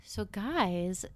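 slow sultry phone operator voice; sexy phone operator voice. Acted. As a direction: purr it like a phone sex line. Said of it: "What a sexy, like, phone operator voice that was".

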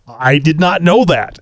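lightly imitated TV announcer sidekick; slightly hammed-up catchphrase delivery; Ed McMahon. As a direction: put on a hint of a mock announcer voice, stretching the line. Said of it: "say in my best Ed, Ed McMahon voice".

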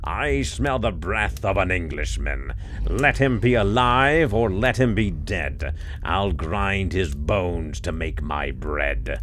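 thundering giant. Acted. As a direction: roar it like thunder. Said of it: "a voice, like thunder, cried out".

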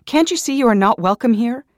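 screaming at an unwanted friend; angry outburst. A narrator's reading. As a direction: lash out at him with full anger. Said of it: "I shot back angrily".

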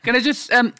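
high helpless laughter; can barely talk for laughing; laughing hard. Real, not acted.

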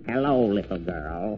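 sly wolf. Acted. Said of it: "I'm a wolf now".

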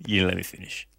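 low criminal voice. Pretend. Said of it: "why am I doing his voice?".

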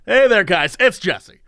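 punchy host greeting, slowing at the end; exaggerated host intro. Correcting friend's imitation with own intro, hammed-up. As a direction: play up your own show opening.

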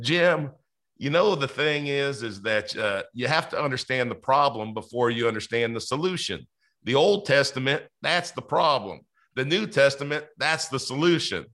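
put-on lightly borrow the old man's Southern accent; a gentle Southern accent for a wise mentor's saying. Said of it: "I gotta try to do his accent just a little bit".

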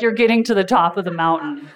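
laughing cheer. Retold or imitated. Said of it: "I was like".

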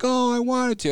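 mom's retold protest. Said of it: "And she's like".

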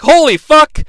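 high, loud burst of astonishment; retold amazement. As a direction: blurt it out as if stunned, reliving the moment. Retells his first amazed reaction.

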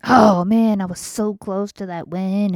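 loud, exasperated gamer outburst; imitated boy gamer. Mother imitates boy losing at Fortnite, loud mock outburst. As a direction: burst out like a kid who just lost. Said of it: "when he plays on Fortnite".

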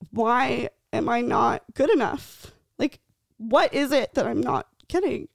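slow, high, close to tears; choked-up retelling. Retold or imitated. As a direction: relive the despair, voice catching. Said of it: "so hysterical in tears".

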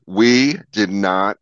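slow, emphatic mock objection; imitating upset publicist. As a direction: spell out the objection in a retold scolding. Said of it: "the publicist comes up and she goes".

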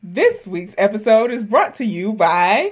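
announcer-style intro read; a light newscaster voice. Acted. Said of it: "I like how you did that little newscaster voice".

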